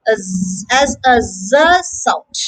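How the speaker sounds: buzzed "z" on its own; sound demonstration. Shown as a demonstration. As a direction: isolate the voiced "z" sound. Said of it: "S is pronounced as".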